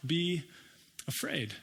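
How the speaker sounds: very slow, each word held apart; slow emphatic. Shown as a demonstration. Preacher repeating the command to the church, very slow. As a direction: lay it down word by word. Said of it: "Let me say it in a different way".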